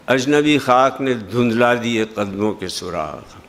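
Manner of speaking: lightly voiced melancholy recital; poem recitation. Shown as a demonstration. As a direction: let the night settle into silence.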